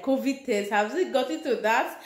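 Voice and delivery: mock-panicked questioning; retold alarm. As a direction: act out alarmed disbelief, half in earnest. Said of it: "I was very afraid".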